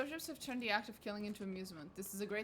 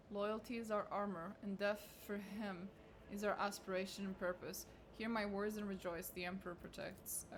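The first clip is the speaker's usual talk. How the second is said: solemn sermon reading. Acted. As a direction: intone it like a priest's litany. Continues the zealot sermon.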